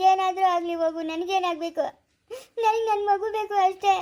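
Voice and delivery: a choked, tearful plea. Acted. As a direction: voice catching on a sob as she begs. Pleading with Krishna for her baby.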